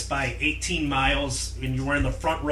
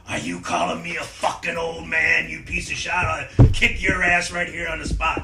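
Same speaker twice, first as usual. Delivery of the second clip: a hint of an offended old wrestler's snarl; lightly voiced outraged threat; mock angry threat; 2 semitones higher than usual. Tommy Rich threatening the young fan, mock angry.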